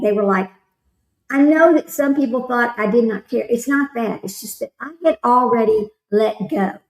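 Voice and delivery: ordinary delivery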